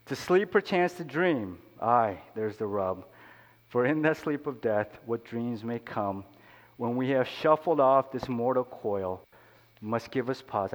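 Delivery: declaimed Shakespeare, slowed in places; earnest reading of Hamlet to the congregation; poem recitation. Acted. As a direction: recite Hamlet like a stage soliloquy.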